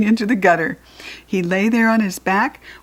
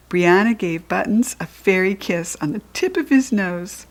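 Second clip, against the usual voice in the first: usual speaking voice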